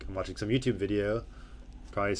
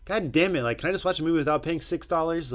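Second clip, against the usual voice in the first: loud, high exasperated outburst; mock rant; fed up; 9 semitones higher, 8 dB louder than usual. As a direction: vent loudly at being charged to watch. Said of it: "I'm like".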